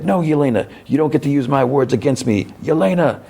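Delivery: high, breaking protest; anguished cry. Retold or imitated. Alexei protesting as Yelena says goodbye, high anguished cry. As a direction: cry out her name in anguish.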